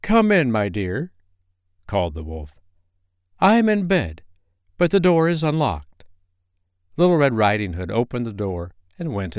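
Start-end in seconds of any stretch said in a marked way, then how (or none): 0.0-6.0 wolf putting on a high granny voice; sweet fake grandmother, a bit high; disguised wolf voice. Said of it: "disguising his voice as much as he could".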